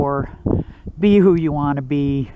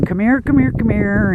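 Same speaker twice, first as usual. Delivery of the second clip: calling the dogs, higher pitch; mock call to dogs; 4 semitones higher than usual. Owner imitating calling his dogs back. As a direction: mimic calling the dogs over. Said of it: "without yelling".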